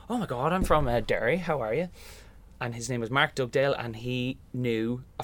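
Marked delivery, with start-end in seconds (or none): 0.1-1.9 put-on Northern Ireland accent. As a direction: greet a compatriot in Northern Irish accent, pitch lifted. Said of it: "this Northern Ireland accent".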